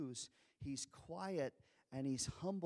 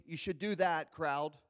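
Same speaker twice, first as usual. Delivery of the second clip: nudging hint; 4 dB louder than usual. Retold or imitated. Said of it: "wink, wink".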